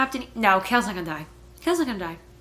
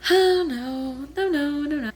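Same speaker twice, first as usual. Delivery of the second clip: alarmed no; 6 semitones higher, 5 dB louder, slower than usual. Real, not acted. Sensing something bad coming.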